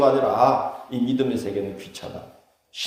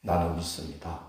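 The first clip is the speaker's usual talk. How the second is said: solemn confession; 6 semitones lower, 9 dB quieter than usual. Shown as a demonstration. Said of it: "얼마나 중한 무게가 있는 말인지".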